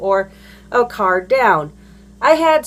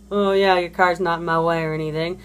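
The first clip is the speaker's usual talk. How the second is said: lower, dry sarcastic agreement; 4 semitones lower, faster than usual. Retold or imitated. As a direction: pretend to agree with the mock victim. Sarcastic reply to the mock victim.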